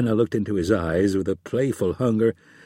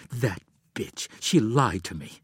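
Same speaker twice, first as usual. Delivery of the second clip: snarled through teeth. Acted. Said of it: "Through clenched teeth, she snarled".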